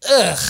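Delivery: imitated grunt of disgust; disgusted ugh. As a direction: mimic an appalled listener's ugh. Imitates a disgusted audience member.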